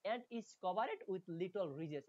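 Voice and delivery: slow, careful English text reading; slow reading aloud. Shown as a demonstration. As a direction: read each word out slowly for students. Reads English text slowly. (ধীরে ধীরে পড়ে শোনানো)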